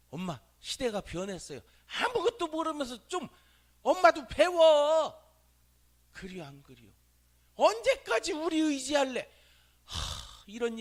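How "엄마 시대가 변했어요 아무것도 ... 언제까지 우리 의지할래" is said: high, loud, mocking child talking back; sassy child. Preacher voicing a child who lectures his mother, high and loud. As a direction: snap back at mom like a bratty kid.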